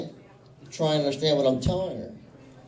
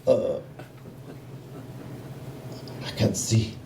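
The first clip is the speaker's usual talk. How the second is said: put-on flustered, halting Italian-accented old-school father; dad's Italian accent; 3 semitones lower than usual. Italian dad who can't see the phone, in a flustered Italian accent. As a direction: imitate an Italian dad fumbling, trailing lower. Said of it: "In his Italian accent".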